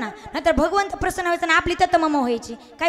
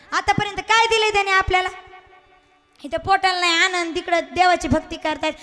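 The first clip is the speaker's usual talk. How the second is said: mildly heated nagging, a little raised; scolding wife. Acted. Wife quarrels with praying husband over money, mildly scolding. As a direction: pile up complaints in an acted quarrel. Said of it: "अशी भांडायला लागली त्याला".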